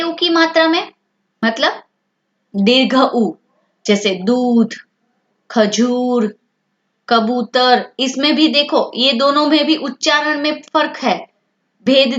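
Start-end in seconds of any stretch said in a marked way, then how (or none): 4.2-7.9 lengthened ू in दूध, खजूर, कबूतर; word-by-word दूध, खजूर, कबूतर with long u. Shown as a demonstration. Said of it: "लंबा हो जाएगा".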